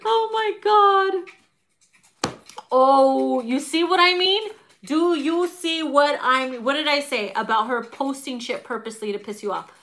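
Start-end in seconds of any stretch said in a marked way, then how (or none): 0.0-5.5 slow, high, wheezing through laughter; laugh-crying. Real, not acted. Reader overcome with laughter, high slow wail. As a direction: cry it out while laughing helplessly.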